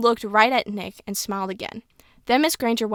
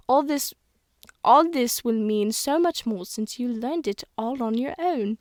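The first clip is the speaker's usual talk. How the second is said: lightly voiced old British schoolteacher; old woman's British accent, lightly done; a touch of elderly British teacher; Miss Granger. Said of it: "I'm trying to sound how Miss Granger would sound".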